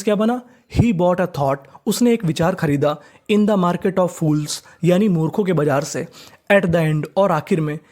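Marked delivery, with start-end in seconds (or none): 3.3-4.6 slow dictation. Shown as a demonstration. Teacher dictating the English sentence.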